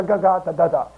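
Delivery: nonsense syllables, babbled like gibberish; mocking baby-talk babble; mock babbling tongues. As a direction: imitate meaningless tongue-speaking sounds. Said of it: "just nonsensical ga".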